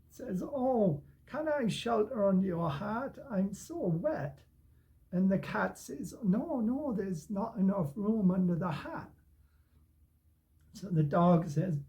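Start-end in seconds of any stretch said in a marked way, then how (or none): 0.4-4.4 lightly voiced pleading dog, higher pitch. Acting the wet dog asking shelter. 6.2-9.1 lightly voiced cat, high-pitched no; refusing cat. Acting the cat refusing the dog.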